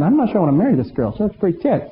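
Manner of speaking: quick, fast, laughing jest; joking aside. Retold or imitated. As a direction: tease the bride through a laugh. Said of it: "And I'm thinking".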